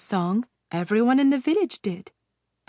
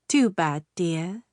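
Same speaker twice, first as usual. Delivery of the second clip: hissed; 3 semitones lower than usual. Acted. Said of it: "the witch hissed".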